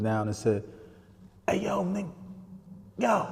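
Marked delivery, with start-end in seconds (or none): 1.5-3.3 retold high-pitched hail to a passerby; calling out. Uncle hails a man walking by from the car, calling out.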